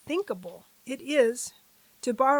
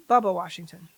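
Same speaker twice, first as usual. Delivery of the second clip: mock folksy nickname; 3 semitones lower, 5 dB louder than usual. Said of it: "I'm just gonna say Bubba".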